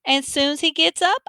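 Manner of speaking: high, witchy granny making a promise; announcing granny. A narrator's reading. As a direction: state it teasingly as the old granny, unfinished. Grandma announces, Mama echoes it.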